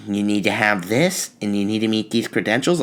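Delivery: lightly voiced bossy busybody; a hint of a rule-quoting Karen; permit patty. Comedian mocking a bureaucratic Karen, mildly prim. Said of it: "a permit patty".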